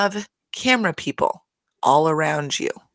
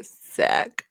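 Lisa. Retold or imitated. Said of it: "wasn't expecting her to say".

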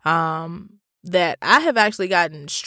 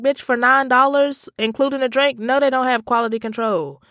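high-pitched acted indignation; retold comeback, pitched up throughout; exasperated retort; 6 semitones higher than usual. Customer answering a doubting lady, exasperated.

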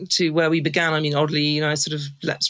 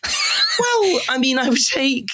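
laughing; 12 semitones higher than usual. Real, not acted. Laughing while choosing wine.

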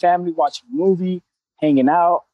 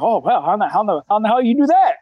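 buddy's incredulous question, pitch climbing at the end; mock amazement; 3 semitones higher than usual. Buddies hearing he coaches without cussing, mock amazement. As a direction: stammer into it, lightly acted disbelief.

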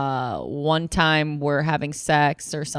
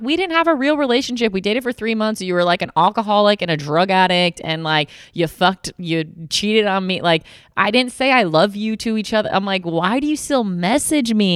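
higher, exasperated listing; exasperated retort; 5 semitones higher than usual. Retold or imitated. She tells her ex why they're done, in a higher exasperated voice. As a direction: lay out his faults, fed up.

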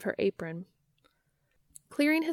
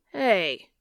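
shout; 5 dB louder than usual. Acted. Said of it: "Dean shouts".

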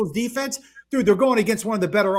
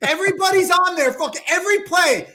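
yelling; 5 semitones higher than usual. Real, not acted. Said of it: "Stop yelling".

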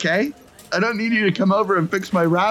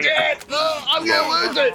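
laughing; 10 semitones higher than usual. Real, not acted. Cracking up over the vomit.

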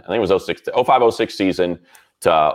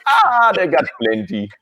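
lightly voiced Michael; 10 semitones higher than usual. Michael's voice in acted exchange.

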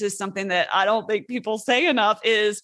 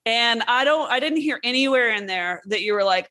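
ordinary talk

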